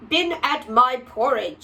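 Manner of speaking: a hint of a gruff big bear; lightly voiced papa bear; mildly gruff bear voice; great huge bear. A narrator's reading. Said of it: "in his great rough, gruff voice".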